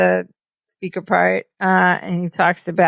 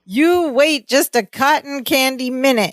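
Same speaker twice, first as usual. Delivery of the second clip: high Balki voice; 6 semitones higher than usual. Retold or imitated. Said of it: "he goes".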